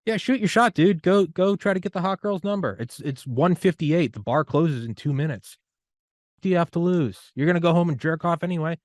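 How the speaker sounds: high, loud egging on; hype-man pep talk. Acted. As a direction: push him to go ask her. Hyping a friend at bar.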